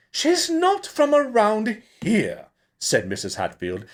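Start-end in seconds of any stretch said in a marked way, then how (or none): 0.1-2.5 very high, louder fussy woman; fretful director. A narrator's reading. Mrs Hatfield answering the barmaid, high and fretful. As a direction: flutter the no up high.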